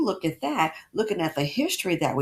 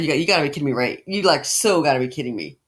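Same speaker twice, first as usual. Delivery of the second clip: lower, loud you-gotta-be-kidding-me; loud exasperated disbelief; 5 semitones lower, 6 dB louder, faster than usual. Retold or imitated. Host mocking the double standard, loud disbelief. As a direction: throw up your hands in disbelief. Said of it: "It's like".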